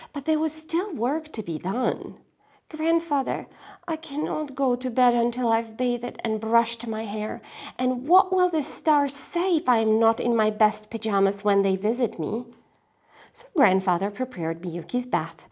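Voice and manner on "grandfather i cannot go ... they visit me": put-on sleepy girl. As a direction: plead more drowsily. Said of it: "Miyuki pleading".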